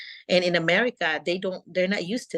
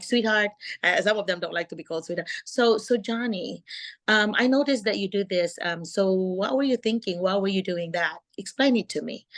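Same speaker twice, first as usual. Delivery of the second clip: calm teacher voice; 2 semitones higher than usual. Shown as a demonstration. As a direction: coax the child to explain, no scolding. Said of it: "I would always like very calm voice".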